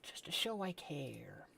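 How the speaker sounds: breathy secret whisper, all air. Pretend. Sending cryptic messages to friends, whispered. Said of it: "my cryptic messages".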